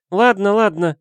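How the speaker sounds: high, bright-pitched coaxing friend; Valentina voice. A narrator's reading.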